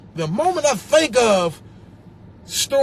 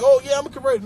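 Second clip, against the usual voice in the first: smug boast; 4 semitones higher, 4 dB louder, faster than usual. Retold or imitated. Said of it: "don't think being a converter is like".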